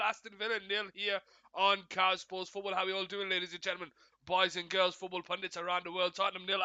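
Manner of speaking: steady, fluent football commentary; live play-by-play. Real, not acted. Streamer updating viewers ten minutes into the game, live play-by-play. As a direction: keep the match call rolling.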